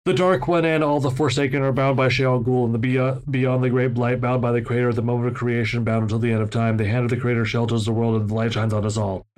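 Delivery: fast, level monotone recitation; by rote. Acted. Reader reciting Rand's catechism from the book, by rote. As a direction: rattle it off like a memorized creed. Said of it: "he said by rote".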